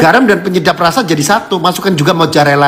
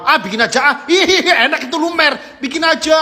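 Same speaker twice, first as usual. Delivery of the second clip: laughing; 8 semitones higher, 3 dB quieter than usual. Real, not acted. Reacting to food video, laughing.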